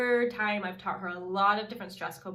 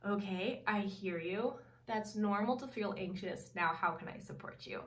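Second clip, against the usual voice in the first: a calm mother offering help, not rescue; supportive. Retold or imitated.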